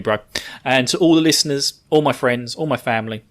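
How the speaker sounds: normal talking voice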